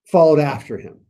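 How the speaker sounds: condescending authorities. Retold or imitated. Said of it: "what their argument is".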